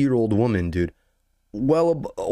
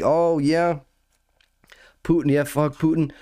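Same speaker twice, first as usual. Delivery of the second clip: mimicking lady; 4 semitones higher than usual. Mimicking the lady's reply.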